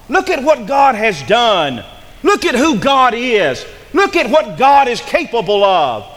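rally the weary people to look up; urgent plea. Acted. Voicing God urging the remnant.

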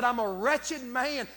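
slowly, each word weighed, a man admitting he is wretched; slow emphatic confession. Retold or imitated. Preacher voicing Paul's confession, slow and weighty. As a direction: lean into wretched, slow and heavy. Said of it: "Paul said".

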